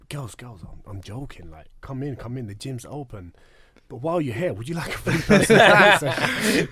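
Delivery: mock Australian trainer, laughing at the end; cheeky Australian voice, laugh breaking through; Australian accent. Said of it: "I actually love your Australian accent".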